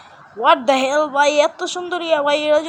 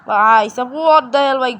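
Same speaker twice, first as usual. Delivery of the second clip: drawn-out surprise; 7 dB louder, much slower than usual. Real, not acted. Sees gold blocks everywhere.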